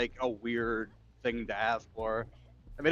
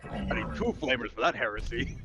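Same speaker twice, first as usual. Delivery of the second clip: lightly gruff soldier voice; a hint of a zealous space marine. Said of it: "Space Marine voice".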